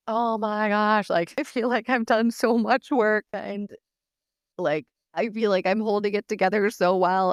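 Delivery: exasperated dismay. Retold or imitated. Speaker retelling her reaction to being called overwhelmed, mildly exasperated.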